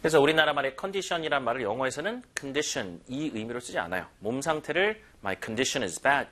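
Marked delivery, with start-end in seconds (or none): 5.2-6.3 slow wrong example. Shown as a demonstration. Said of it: "이렇게는 절대 안 합니다".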